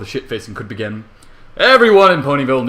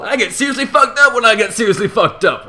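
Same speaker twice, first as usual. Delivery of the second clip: gloating boast; 10 semitones higher, 4 dB louder than usual. Acted. Gloating narrator boasts drunk plan.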